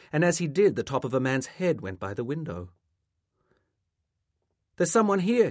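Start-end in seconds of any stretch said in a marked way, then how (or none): 4.8-5.5 louder, higher call through the house. A narrator's reading. Boy alerting his mother to a visitor, calling out. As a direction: call to someone in another room. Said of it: "he called to his mother".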